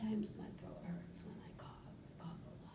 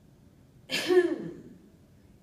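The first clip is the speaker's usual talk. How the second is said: loud high cough cut off early; first try at a cough glide, too short; 8 semitones higher, 21 dB louder than usual. Real, not acted. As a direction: cough up high but stop too soon. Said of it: "continue exhaling and go all the way down".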